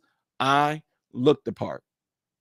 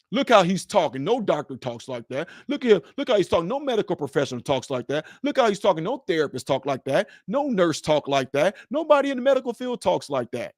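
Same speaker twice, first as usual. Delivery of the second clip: mock disbelief, pitch jumping up then dropping; imitated doubters; 3 semitones higher than usual. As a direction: repeat the complaint like scandalised critics. Mimics doubters judging his speech.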